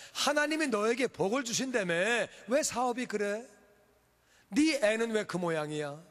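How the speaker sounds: acted needling of a believer; mocking taunts. Enemies taunting a believer over failed business and children, mocking. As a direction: jeer in separate jabs, pausing between them. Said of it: "원수들이 놀리는 거예요".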